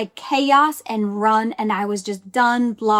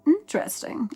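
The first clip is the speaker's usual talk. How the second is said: a higher, softer, drawn-out "Interesting"; 4 semitones higher, 5 dB quieter than usual. Shown as a demonstration. Coach showing viewers the reframe, a higher, softer, drawn-out "Interesting". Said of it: "I don't know why I have to say it like that".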